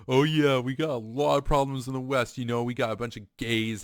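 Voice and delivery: put-on Texas cowboy accent. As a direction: imitate the Texan fighter, rough Texas accent. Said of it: "He's got this thick Texas accent".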